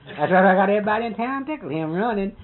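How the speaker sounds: loud, high, laughing through the words. Real, not acted. Recounting Jack running from his wife, laughing loudly. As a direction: laugh out loud as you tell it. Laughing telling funny fight story.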